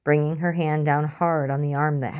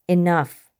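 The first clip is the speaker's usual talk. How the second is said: sharp shout; 3 semitones higher, 6 dB louder than usual. Acted. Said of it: "slamming her hand on the table".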